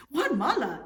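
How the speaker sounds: mock surprise. Juan pretending not to be himself, loudly surprised. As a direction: fake being shocked at the name. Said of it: "exclaimed Juan Mala".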